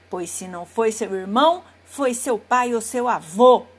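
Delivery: the wolf loses his temper; furious wolf. Acted. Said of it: "O lobo, furioso". (lobo furioso gritando)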